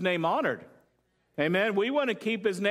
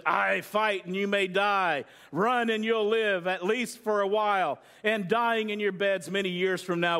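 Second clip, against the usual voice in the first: movie speech quote. Retold or imitated. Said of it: "he says".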